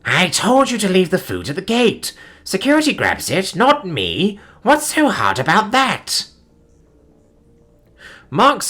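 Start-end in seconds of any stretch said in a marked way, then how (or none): 0.0-6.3 sharp, irritated and higher; irritated growl. Acted. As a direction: growl through the door. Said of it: "growled ... sharp and irritated".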